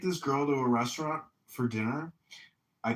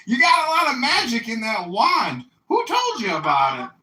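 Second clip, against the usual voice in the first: mock dad voice; 8 semitones higher, 8 dB louder than usual.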